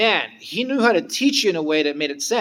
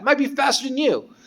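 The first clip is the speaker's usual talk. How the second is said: teasing whisper; 10 semitones higher than usual. Retold or imitated. Teasing rival claim.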